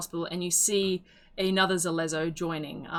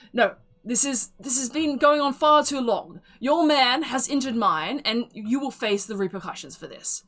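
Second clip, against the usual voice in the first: louder, higher, fast outraged complaint; indignant accusation; 5 semitones higher, 4 dB louder than usual. Acted. Stern elven woman blames the other man, loud and outraged. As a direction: rant like a furious townswoman.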